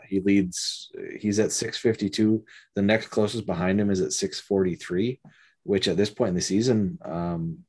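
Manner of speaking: groggy, drugged speech after surgery; weak after surgery. Real, not acted. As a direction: talk through post-surgery haze. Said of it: "I can't talk. I'm on drugs right now".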